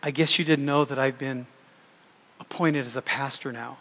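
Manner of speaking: softly imitating a smug confidential whisper; mock whisper. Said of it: "he whispered in my ear".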